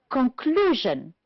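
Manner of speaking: "Conclusion" slowly, stressed on CLU; stress on second syllable. Shown as a demonstration. Teacher identifying stressed syllables, "Conclusion" slowly with the second stressed. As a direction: draw out the middle of "Conclusion". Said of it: "Second one".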